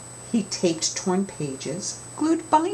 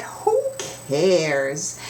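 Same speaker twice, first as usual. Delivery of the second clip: put-on carefree kids. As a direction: toss it off like bold kids.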